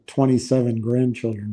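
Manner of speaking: normal talking voice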